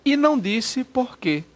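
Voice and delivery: slow, word by word; dictation pace. Shown as a demonstration. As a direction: dictate it slowly. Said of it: "vou dizer assim". (ditado bem devagar)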